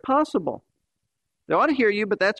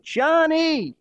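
a high, shrill mock scream of the name; 8 semitones higher than usual. A narrator's reading. Fed-up mother screaming for her son, shrill mock scream. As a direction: explode at the boy after being ignored. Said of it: "she exploded with an intensely shrill scream".

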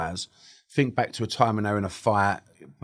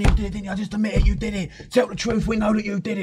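mock interrogation; 11 semitones higher than usual. Police interrogation acted out.

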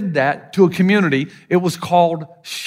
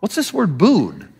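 puzzled translator; slower than usual. Retold or imitated. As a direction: imitate a baffled translator. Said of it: "he kept saying".

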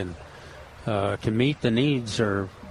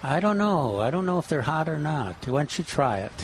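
feigned innocence, starting higher and settling down; mock straight-faced; 4 semitones higher than usual. Host coaching buyers to trick visitors, mock straight-faced innocence. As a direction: play innocent while luring them to taste. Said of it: "keep a straight face and say".

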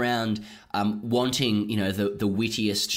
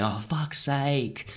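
slow, drawn-out distant groan, raised pitch; exasperated captain, faint; 5 semitones higher, much slower than usual. Acted. Captain despairing at a fielder, faint exasperated cry. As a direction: groan it high and long, as if far off. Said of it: "faintly make out a captain going".

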